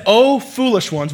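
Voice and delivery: high, loud, drawn-out chiding; mock rebuke. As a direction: scold them theatrically as Jesus, slowly. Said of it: "Jesus rebukes them back".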